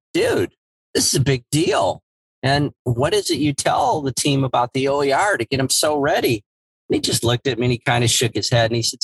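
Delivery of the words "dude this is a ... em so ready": pitched up high, pushing the big deal; eager, almost begging for credit; retelling his own wide-eyed excitement; excited disbelief. Retold or imitated. Retold pleading with Sean.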